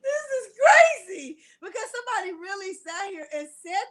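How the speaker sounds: laughing through the words, close to tears; can't hold the giggles back. Real, not acted. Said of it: "Forgive me for laughing".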